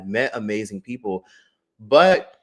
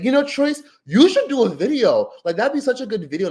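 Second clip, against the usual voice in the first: much higher, sugary imitation of the caller; hammed-up wheedling impression, pitched up; mock girly voice; 12 semitones higher, 6 dB louder than usual. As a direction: put on a sweet, pushy high voice to mimic her. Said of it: "she was like".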